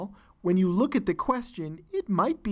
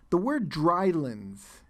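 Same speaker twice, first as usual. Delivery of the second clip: slow, deliberate "drylands" for the class; slow emphasis; slower than usual. Shown as a demonstration. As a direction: draw out "the word drylands" slowly and point at it. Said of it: "the word drylands in the passage".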